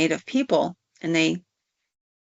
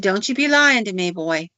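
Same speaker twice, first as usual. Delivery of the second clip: mildly scolding, raised pitch and volume; stern accusation; 4 dB louder than usual. Retold or imitated. Granny confronting the man she suspects of murder, stern accusation. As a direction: lean in hard, then drop on the last word. Acted accusation in a told story.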